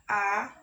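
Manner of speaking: A held as a long open "aah"; long vowel. Shown as a demonstration. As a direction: draw out the vowel A. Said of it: "tapi long vowel di situ".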